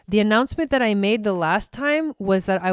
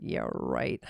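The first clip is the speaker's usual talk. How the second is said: sarcastic; 10 dB quieter than usual. Retold or imitated. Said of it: "And I'm like".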